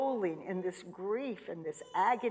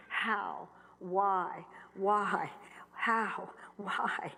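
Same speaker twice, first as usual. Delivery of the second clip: anguished whispered why and how; a hushed, tormented whisper; whispered questions; much slower than usual. Retold or imitated. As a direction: breathe the questions out.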